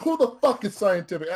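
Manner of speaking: high, laughing disbelief; incredulous cop, laughing. Retold or imitated. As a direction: laugh through the outraged question. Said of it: "He's like".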